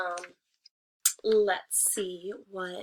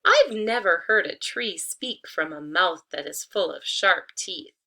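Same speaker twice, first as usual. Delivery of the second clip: louder, pointed hen voice; knowing hen; 7 dB louder than usual. Acted. Hen exposing the wolf's teeth, louder and pointed. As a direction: call out the trick plainly. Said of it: "said Hen".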